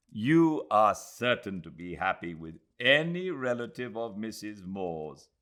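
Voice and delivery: a formal bow in words; polite formality. Acted. Aziz answering Adela with formal courtesy.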